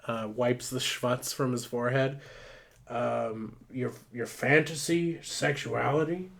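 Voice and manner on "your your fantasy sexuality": halting, questioning echo; acted uncomfortable. Older firefighter hears Ruth's confession, mildly uncomfortable question. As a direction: stammer it back, mildly uneasy. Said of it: "Clearly uncomfortable, Bruce is".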